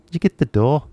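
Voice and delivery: お笑い風のイギリス英語のまねで; British accent impression. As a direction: ham up a British accent for laughs. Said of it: "ちょっと真似してみて".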